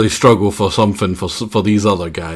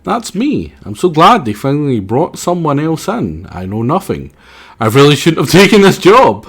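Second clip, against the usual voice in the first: dumb character voice; 5 semitones higher than usual. Acted.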